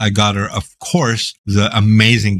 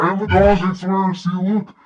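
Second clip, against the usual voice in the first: 1 high excited; 10 semitones higher than usual. Real, not acted. Showing the dog, excited.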